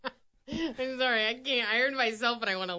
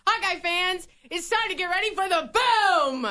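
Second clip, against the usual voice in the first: dramatic announcer; 4 semitones higher than usual. Pretend. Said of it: "could be more dramatic".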